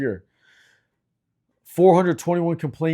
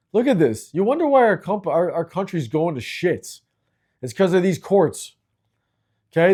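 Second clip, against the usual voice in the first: frustrated rant; 3 semitones higher than usual. Real, not acted. Ranting to viewers about courts ruining lives, genuinely frustrated. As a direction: vent real frustration at the courts, pitch up. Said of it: "I'm sorry, I'm frustrated".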